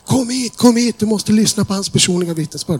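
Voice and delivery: high, eager sing-song calling. Retold or imitated. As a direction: call the next one over excitedly. Salesman calls another colleague over.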